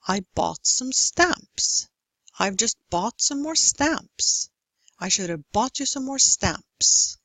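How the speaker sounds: steady beats on "bought" and "stamps", added words squeezed between; regular stressed rhythm. Shown as a demonstration. Lecturer gives growing examples, "bought" and "stamps" stressed on the beat. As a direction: keep "bought" and "stamps" in time as "should have" gets hurried. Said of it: "speed up the unstressed ones".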